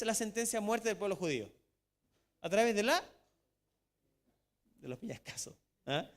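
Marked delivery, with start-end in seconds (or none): none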